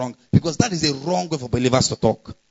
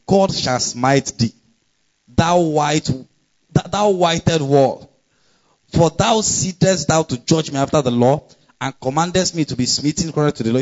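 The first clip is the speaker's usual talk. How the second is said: scripture rebuke; 2 semitones higher than usual. Acted. Paul rebukes the high priest.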